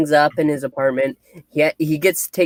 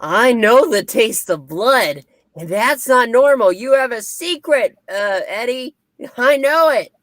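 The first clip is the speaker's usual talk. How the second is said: menacing villain quote; 8 semitones higher than usual. Retold or imitated. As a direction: savor every word like a sinister killer. Cletus taunting Eddie about blood.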